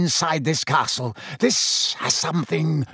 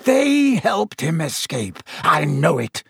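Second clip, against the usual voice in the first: slow, higher furious accusation; raging teacher accusing students; mock howling professor; 4 semitones higher, 3 dB louder, slower than usual. A narrator's reading. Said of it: "Snape howled".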